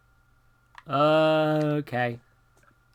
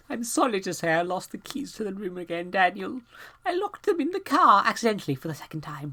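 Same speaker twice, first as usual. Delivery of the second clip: a higher, lightly voiced note writer; reading the note; 4 semitones higher than usual. Player reading a guest's note aloud, apologetic voice.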